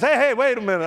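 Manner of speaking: hey hey, scrambling to stop it; panicked plea. Retold or imitated. Protester backing away from a threatened slap, panicked. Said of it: "The guy goes".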